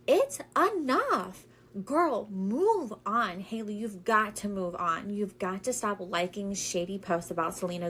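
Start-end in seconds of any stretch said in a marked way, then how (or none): 0.1-3.4 catty. Real, not acted. Exasperated scolding.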